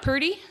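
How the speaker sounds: "pretty" as PUR-dee; "pretty" said purdy, with a D; Texan mispronunciation. Shown as a demonstration. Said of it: "really mispronounced vowels".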